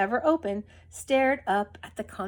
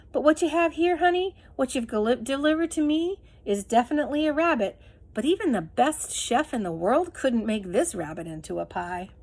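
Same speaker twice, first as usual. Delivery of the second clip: kindly tramp; 2 semitones higher than usual. Acted. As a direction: reason fondly with the dog. Bull speaks to his dog.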